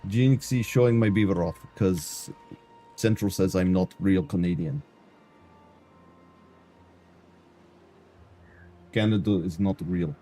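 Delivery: put-on Eastern European accent; mock Eastern European character voice; bad Eastern European accent. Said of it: "This is how I have to talk".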